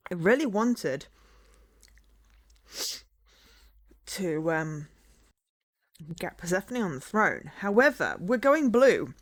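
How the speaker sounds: talking around a candy in mouth; words round a sweet; sucking a hard candy. Real, not acted. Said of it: "I'm gonna sweeten my mouth".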